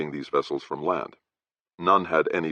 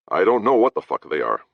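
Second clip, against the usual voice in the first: mild irritated snap; a touch of temper, bitten off; snapped; 5 semitones higher, 5 dB louder than usual. Acted. Captain snaps at Jane, mild irritated snap. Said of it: "Clift snapped".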